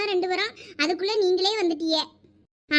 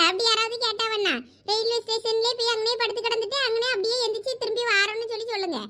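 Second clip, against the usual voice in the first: loud complaining; 3 semitones higher than usual. Acted. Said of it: "யார் அங்க இப்படி சத்தம் போட்டு பேசிட்டு இருக்குது?".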